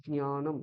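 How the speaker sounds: জ্ঞানম with light j and nasal ny; Sanskrit pronunciation. Shown as a demonstration. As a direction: model জ্ঞানম as j-nya-nam. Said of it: "এইরকম হবে".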